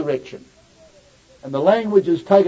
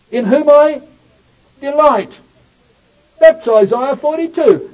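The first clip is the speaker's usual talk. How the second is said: higher, louder, relishing delight; fervent proclamation; 7 semitones higher, 4 dB louder than usual. Acted. Preacher lifting the Greek phrase up for the congregation. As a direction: savour the word delight.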